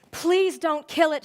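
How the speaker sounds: mildly acted sob, begging slowly; tearful pleading. A narrator's reading. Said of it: "she sobbed".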